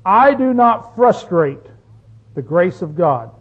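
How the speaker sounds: slow, deliberate scripture reading; reading the verse. Shown as a demonstration. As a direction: read it slowly and weigh each word. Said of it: "Now he says it this way".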